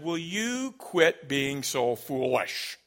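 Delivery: slow, mildly exasperated scolding; really frustrated mom. Retold or imitated. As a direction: imitate a mother at the end of her patience. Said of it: "Now she's getting really frustrated".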